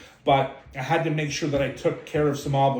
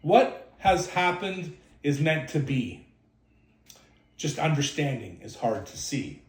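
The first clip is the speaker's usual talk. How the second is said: reciting a poem. Shown as a demonstration. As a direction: say it like a remembered poem. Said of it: "I remember that poem".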